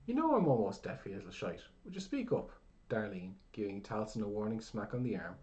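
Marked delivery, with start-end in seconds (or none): 0.0-2.5 put-on deaf old man. A narrator's reading. Deaf old man complaining loudly.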